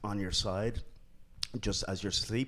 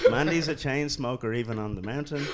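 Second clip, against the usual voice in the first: laughing; 4 semitones higher, 6 dB louder than usual. Real, not acted. Laughing about smoking on mountain.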